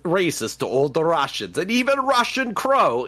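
mock-Russian character making an entrance; fake Russian accent. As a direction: put on a hammy Russian accent. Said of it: "crazy fake Russian accent".

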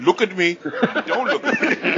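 barked drill sergeant command; military voice. Retold or imitated. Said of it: "I did it in a military voice".

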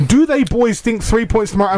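put-on rural West Country burr on do they boys; West Country accent. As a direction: read it like a Bristol farmer. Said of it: "that reads in like a West Country accent".

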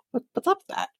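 high, breathy disbelief; incredulous whisper. Real, not acted. Vlogger reacting to the wife's weak response, whispered.

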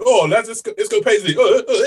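loud, laddish cheering; rowdy lads. Retold or imitated. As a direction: hype it up like lads on a night out. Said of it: "You're gonna get a group of lads going".

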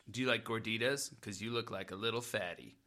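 nagging pickup line. Acted. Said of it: "nagging route where you're like".

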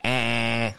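drawn-out Scottish "Eh"; amateur Scottish accent attempt. Shown as a demonstration. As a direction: warm up a put-on Scottish accent. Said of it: "That's how I do my Scottish accent".

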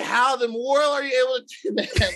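high, astonished voice; imitating an awestruck Andrew; amazed disbelief. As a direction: ask it in awe.

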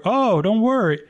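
mock reassurance. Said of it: "a bad haircut speech ready".

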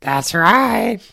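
a slow, official doctor on the phone. Pretend. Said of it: "I'll do both voices".

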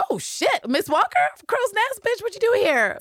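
high-pitched, hammed-up shock; mock startled greeting. Voicing the Listers surprised by Miss Walker, mock startled. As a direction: squawk it high in exaggerated surprise.

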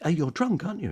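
high, accusing conductress voice; mock conductress. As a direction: catch him out, high and sharp. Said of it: "And she said".

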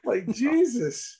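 put-on country accent. Mocking hick voice.

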